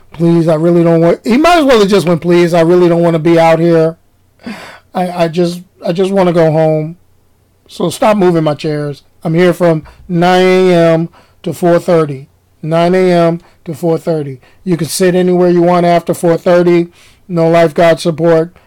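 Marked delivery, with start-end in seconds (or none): 0.1-1.3 flat, lifeless low drone; monotone voice. Retold or imitated. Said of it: "He had no personality". 2.2-18.6 flat, lifeless low drone; monotone voice. Retold or imitated. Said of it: "He had no personality".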